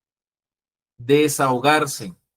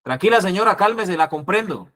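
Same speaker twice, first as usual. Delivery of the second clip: loud, raised demo of the wrong tone; higher, louder, not soothing; wrong, too loud; 5 semitones higher than usual. Shown as a demonstration. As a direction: say the calming words too hard. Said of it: "No es que yo hablo duro".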